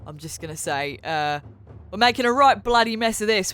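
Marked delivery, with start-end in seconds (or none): 1.9-3.5 broad Australian, slightly raised voice; Aussie-accented character line, a bit higher. Acted. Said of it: "she's gone very Australian this time around".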